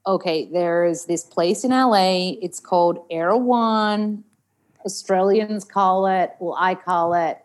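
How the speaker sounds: careful, slowed General American; American accent. Shown as a demonstration. Actor answering host's food question, American accent. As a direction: tell it in a put-on American accent. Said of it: "we'd talk in an American accent".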